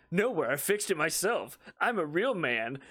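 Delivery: imitating a huffy, offended father; exaggerated macho indignation; mock offended dad. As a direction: drag out the mock wounded pride. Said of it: "Got super offended and was like".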